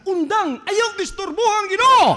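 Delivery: high, loud shushing rebuke; lightly voiced stern disciple; scolding apostles. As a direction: tell him to stop, annoyed. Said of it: "gipaundang siya".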